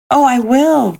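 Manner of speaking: put-on childlike earnest exclamation; eager cry. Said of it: "cried the little soul".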